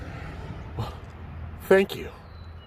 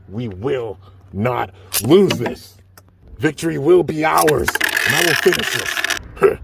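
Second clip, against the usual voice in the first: battle cry; 4 semitones higher, 7 dB louder, slower than usual. Acted. Hero's final battle cry.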